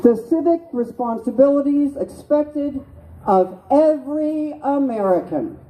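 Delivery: measured, solemn call for repeating; reading an oath aloud. Shown as a demonstration. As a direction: lead the oath line by line. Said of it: "So this is a citizen's oath".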